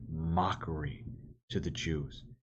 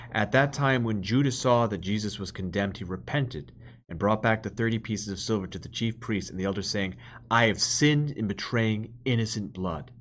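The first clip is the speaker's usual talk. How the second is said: scripture reading. Acted. Preacher reads the Passion to the congregation, solemn proclamation.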